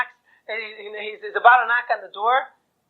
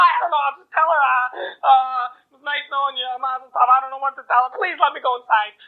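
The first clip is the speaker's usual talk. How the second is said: pleading; 5 semitones higher than usual. Acted. Groom begs to say goodbye.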